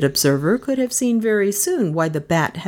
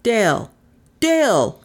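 repeated call, rising higher the second time; 5 semitones higher than usual. A narrator's reading. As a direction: call the name, then more urgently. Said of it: "The call came again".

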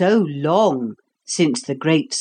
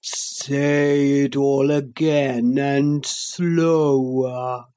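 sleepy creature voice; slower than usual. Acted. The Sloth's voice.

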